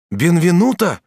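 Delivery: high, loud startled cry of a name; a sharp loud exclamation, high in pitch. A narrator's reading. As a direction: call his name out in sudden shock. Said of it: "вскричал Асканио".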